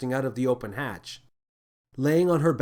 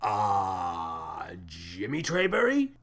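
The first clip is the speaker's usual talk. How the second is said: hopeful; 6 semitones lower, 4 dB quieter, much slower than usual. A narrator's reading. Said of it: "asked the captain hopefully".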